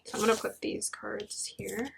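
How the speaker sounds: soft whispered aside. Real, not acted. Reader setting down cards for the viewer, whispering. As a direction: breathe it while setting the cards down.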